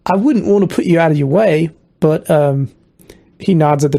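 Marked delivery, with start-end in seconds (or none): 0.1-1.7 put-on Southern accent. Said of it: "he's Southern now".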